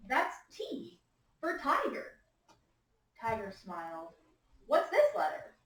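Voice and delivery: lifted voice for quotes, dropped for narration; measured storytime reading with big pitch swings; story read-aloud with dialogue. A narrator's reading. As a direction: read both characters to little listeners. Reads dialogue to class.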